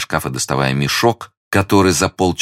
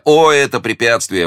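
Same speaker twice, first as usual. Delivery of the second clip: higher, confident outburst; spirited young hero, pitched up; exclaiming; 8 semitones higher, 4 dB louder than usual. A narrator's reading. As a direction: brush it aside with an eager exclamation. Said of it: "воскликнул Д'Артаньян".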